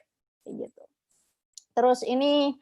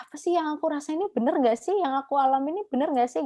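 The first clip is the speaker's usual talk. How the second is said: quick, higher-pitched doubtful questioning; self-doubting; 5 semitones higher, much faster than usual. Acted. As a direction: voice someone unsure of their own reality, fast and higher. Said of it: "kamu merasa ragu dengan realitamu sendiri". (ragu pada diri sendiri, cepat dan bernada tinggi)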